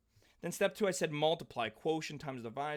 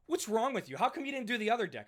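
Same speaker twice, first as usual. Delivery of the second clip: higher, quicker mock scolding; imitating annoyed dad; 5 semitones higher than usual. Dad complaining the other deck was skipped, mild mock scold. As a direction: play the dad as mildly fed up.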